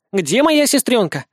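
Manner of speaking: put-on high, slow eager child; excited little girl. Little girl's voice.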